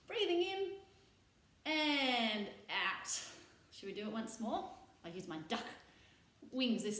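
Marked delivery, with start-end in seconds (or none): 0.1-3.1 slow breathing cue. Shown as a demonstration. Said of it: "breathing exercise".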